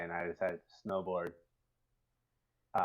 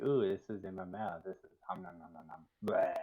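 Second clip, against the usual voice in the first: munching caterpillar. Retold or imitated. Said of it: "He's like".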